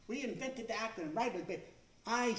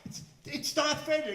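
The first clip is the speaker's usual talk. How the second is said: higher, loud panicked cry; mock panic; 6 semitones higher, 10 dB louder than usual. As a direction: freak out at the voice on the speaker. Panicking on the train.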